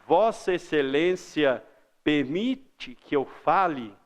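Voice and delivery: slow, careful, deferential ask; formal respectful request. Shown as a demonstration. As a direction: ask the judge's leave politely. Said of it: "eu falo". (pedido formal e lento)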